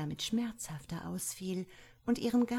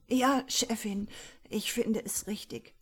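higher, meek answer in another voice; submissive servant; 4 semitones higher, 4 dB louder than usual. A narrator's reading. The beaten secretary submits to his boss, meek higher voice. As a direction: cower and agree.

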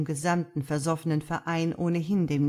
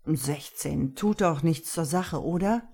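savoring the words. Acted. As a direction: let the words roll off the tongue. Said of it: "ließ meine Worte genüsslich über die Zunge rollen".

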